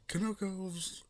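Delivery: high startled yelp of a name; shocked squeak. Acted. Player shocked at the request, squeaking. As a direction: blurt it out, horrified. Shocked outburst naming her.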